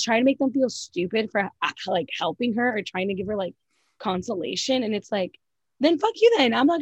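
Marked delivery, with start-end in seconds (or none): 5.8-6.8 higher, louder burst of annoyance; exasperated outburst. Real, not acted. Ranting at Erica's fake sympathy, fed-up outburst. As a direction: blurt it out fed up.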